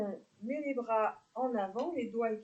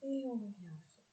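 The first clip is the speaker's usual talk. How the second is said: softer, unhurried breathing instructions; guided yoga cues; 5 dB quieter than usual. Real, not acted. Yoga teacher guiding neck stretches with the breath, calm guided delivery. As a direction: guide the breath gently, with spaces between cues.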